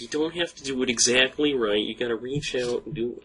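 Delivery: lightly imitated actor speaking English to a child; Tendo. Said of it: "footage of Tendo speaking English".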